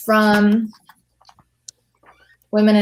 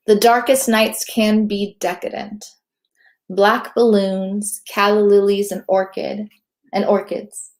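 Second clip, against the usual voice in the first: slow, deliberate spoken-word reading; poem recital. Acted. Poet reads her poem Decadence to the hosts, slow recital. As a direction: savor each dark image, slowly.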